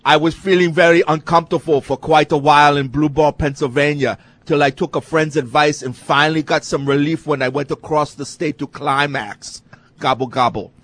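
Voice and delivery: put-on Austrian bodybuilder accent; Arnold impression. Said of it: "How about, uh, Arnold?".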